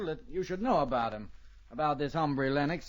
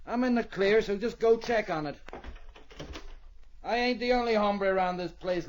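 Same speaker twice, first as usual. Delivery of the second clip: higher, defiant push back; defiant challenge; 5 semitones higher than usual. Acted. Rocky daring the marshal to check his story, higher defiant challenge. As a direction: dare the lawman to check.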